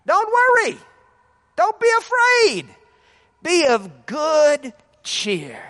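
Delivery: high loud call of reassurance; Jesus crying out. Acted. Jesus cries out to his frightened disciples, loud and reassuring. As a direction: call it out over the storm, then slow down. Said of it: "he cried out to them".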